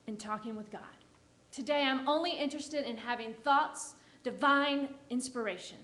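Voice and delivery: gentle and loving. Shown as a demonstration. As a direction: lovingly thank the ego and let it go. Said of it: "just gently and lovingly say".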